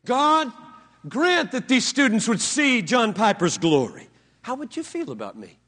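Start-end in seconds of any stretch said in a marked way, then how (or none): 0.0-4.1 a touch of pompous prayer voice, louder; lightly mocked vain prayer; mock self-glorifying prayer. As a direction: pray for his own glory, tongue in cheek. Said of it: "let me pray for you".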